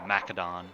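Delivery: "Macedon" said MACK-uh-don; ancient Greek pronunciation. Shown as a demonstration. Streamer offering another form of the name, hard c. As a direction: say "Macedon" with a K sound and a full final -don. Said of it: "the ancient Greek pronunciation".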